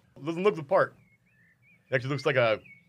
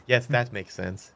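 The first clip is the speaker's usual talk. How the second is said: deadpan; 2 semitones higher, slower than usual. Acted. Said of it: "Says in a very deadpan voice".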